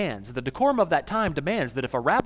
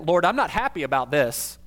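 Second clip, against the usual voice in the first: Martha tone. Shown as a demonstration. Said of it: "a Martha tone of voice".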